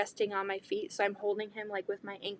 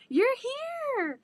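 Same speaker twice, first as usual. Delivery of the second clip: much higher, squealing with excitement; fangirling; 6 dB louder, slower than usual. Retold or imitated. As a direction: gush like a starstruck fan. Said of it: "I was fangirling".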